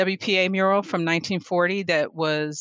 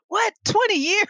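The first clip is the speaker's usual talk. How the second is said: high, rising "Twenty years?" in mock shock; surprised disbelief. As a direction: act stunned at how much time passed. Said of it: "I said".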